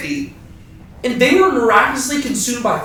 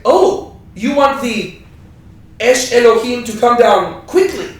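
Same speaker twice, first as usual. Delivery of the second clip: mock misunderstanding; 2 semitones higher, slower than usual. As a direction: play dumb about the request. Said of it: "more room to mishear".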